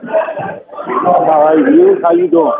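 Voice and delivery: caller on a phone from a noisy bar; phoning in over bar noise; in a crowded bar. Real, not acted. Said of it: "I'm at a bar right now".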